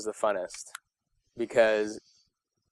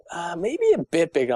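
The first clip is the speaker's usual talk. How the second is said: retold casting director, pitched up; 5 semitones higher than usual. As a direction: imitate a casting director nudging for more. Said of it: "they're like".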